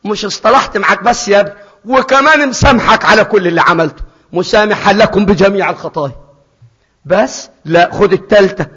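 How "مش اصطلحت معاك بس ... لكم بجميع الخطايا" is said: forgiving father. Acted. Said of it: "كأنه بيقول له".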